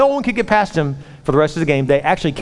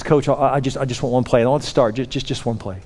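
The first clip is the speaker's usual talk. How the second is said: lower, subdued plea trailing softer; meek pleading; 3 semitones lower, 4 dB quieter than usual. Retold or imitated. Player begs the coach for one play, meek pleading. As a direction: plead haltingly, voice sinking.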